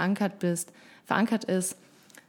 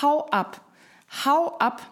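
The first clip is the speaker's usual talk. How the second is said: high-pitched, raised-voice dismissal; demonstrated shout; 7 semitones higher than usual. Shown as a demonstration. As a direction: shout the inner critic away, voice jumping up. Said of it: "Dann schrei sie an und sag". (die innere Stimme anschreien)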